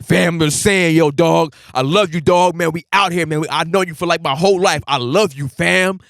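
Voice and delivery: put-on loud lovey-dovey drunk; lovable drunk. Drunk man grabbing his boy, up in his face, loud lovable drunk. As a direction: gush at your boy like a clingy drunk. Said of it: "when you get drunk".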